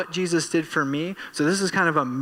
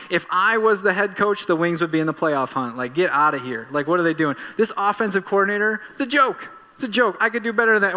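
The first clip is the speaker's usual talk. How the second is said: hammed-up rant, higher and louder, building to a peak on joke; armchair coach rant; 4 semitones higher, 3 dB louder than usual. Fan on the couch ranting about the coach, mock outrage. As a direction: rant like the know-it-all fan who could coach better.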